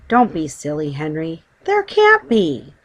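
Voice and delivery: lightly voiced disbelieving Mrs Brown; dismissive wife. Wife dismisses husband's claim.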